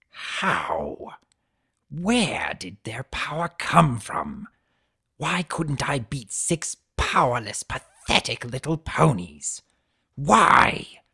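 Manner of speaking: the recording roaring his own words back; replayed bellow. Boombox replaying the centaur's rage back at him. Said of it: "T-Rex's own voice yelled back".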